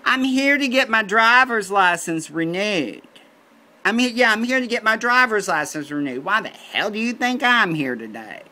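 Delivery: high, loud exasperated rant; sarcastic outburst. Retold or imitated. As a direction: blurt it out, indignant and sarcastic. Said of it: "I thought to myself".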